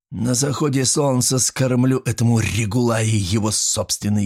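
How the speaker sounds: a hint of a cruel jailer, relishing revenge; gloating jailer. Jailer boasting of tomorrow's revenge, lightly gloating. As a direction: savour every word of the threat.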